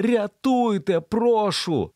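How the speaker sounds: high, pleading cry for help; frightened call for rescue; desperate plea. A narrator's reading. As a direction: beg him to save you. Emily begs stranger for help.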